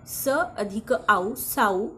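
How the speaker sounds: स, then आऊ, then joined as Sau, with an "ow" glide; sounding out. Shown as a demonstration. Teacher building south for learners, sounding out स plus आऊ slowly into Sau. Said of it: "ए यू म्हणजे आऊ".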